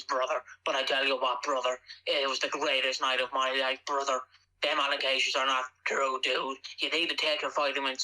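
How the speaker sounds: Hulk Hogan impression. The speaker doing Hulk Hogan for the podcast, low mock promo voice. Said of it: "your best impression of Hulk Hogan".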